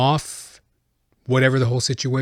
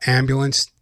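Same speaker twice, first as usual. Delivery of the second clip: usual speaking voice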